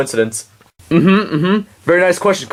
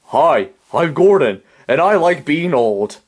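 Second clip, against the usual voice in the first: ventriloquist demo; slower than usual. Shown as a demonstration. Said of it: "like this".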